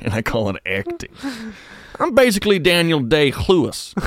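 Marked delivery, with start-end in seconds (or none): 2.0-3.9 Daniel Day-Lewis with a guttural "kh" before Lewis; loud, higher, mock-grand Day-Lewis with a throaty "kh". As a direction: scrape a throaty "kh" onto the start of Lewis. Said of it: "Are you Jewish".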